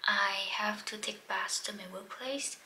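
whispering through a swollen mouth; barely moving a sore, swollen mouth; swollen lip. Real, not acted. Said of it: "My mouth is swollen on this side".

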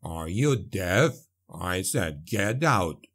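low, slow dwarf voice, exasperated; gruff dwarf. A narrator's reading. Dwarf repeating his order to Andre, low exasperated. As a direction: lean on it like a fed-up dwarf. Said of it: "the dwarf said".

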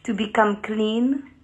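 careful, mock French-accented English; lightly hammed-up French accent; put-on French accent. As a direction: speak English like a French speaker, measured and deliberate. Put-on foreign accent bit in bathtub.

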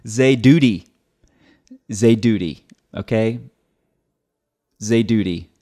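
"Zaidudi" repeated with a hard t for the d; mock replay of the error; imitating his word. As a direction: echo "Zaidudi" as he said it. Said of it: "Did you hear it that time".

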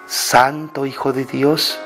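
ordinary talk

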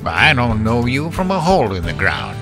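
put-on irritated old farmer, voice held down; snapped, understated. A narrator's reading. Henry disowning the visitor, mildly snapping. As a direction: snap it without raising the voice. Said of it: "Henry snapped".

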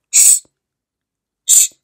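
sharp, loud hushing; abrupt shush. Acted. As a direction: hush them fast and hard. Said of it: "fece bruscamente Lydia".

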